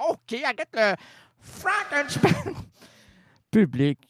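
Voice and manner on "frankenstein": high, slow showman call; grand announcer. Pretend. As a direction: announce him like a circus star. Announcing again. (annonceur de cirque)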